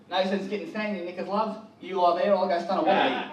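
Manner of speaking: lightly put-on Australian accent; a quick Australian-accented chat up line; a hint of Australian accent. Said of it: "an Australian chat up line".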